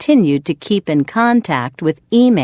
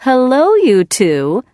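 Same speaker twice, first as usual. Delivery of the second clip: cheerful greeting; 8 semitones higher, 4 dB louder than usual. Acted. Doctor cheerfully greets patients.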